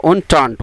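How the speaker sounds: entente said clearly as "oon-taant"; careful pronunciation. Shown as a demonstration. Teacher repeats the word so students notice, careful. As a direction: model entente distinctly for the learner. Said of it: "ये ध्यान रखना".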